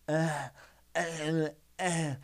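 mild retold strain grunts; mock grunting. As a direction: grunt lightly like pushing a rep. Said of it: "I was like".

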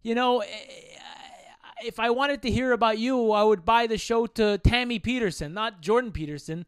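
grumbling fan wanting his money's worth; mild mock outrage; mock indignant rant. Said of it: "I'm like".

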